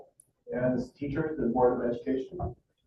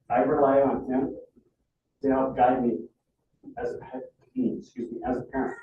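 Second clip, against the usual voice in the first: real emotion, voice catching on the last words; holding back tears while speaking up for his son; getting emotional. Real, not acted. Father asking the school board for help, fighting real emotion. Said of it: "I'm getting emotional".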